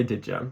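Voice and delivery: "Did ya" run together as "didja"; contracted pronunciation. Shown as a demonstration. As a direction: squash "Did ya" into one quick word, "didja". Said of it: "we're gonna just say".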